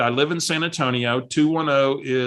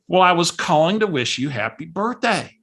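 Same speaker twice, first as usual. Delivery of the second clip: lightly imitated cheery caller; a touch of chirpy birthday well-wisher; cheery Barbara; 3 semitones higher than usual. Barbara calls to wish happy birthday, mildly cheery imitation. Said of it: "she's all cheery".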